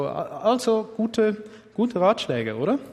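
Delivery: ironic. Acted. Mocking worldly advice.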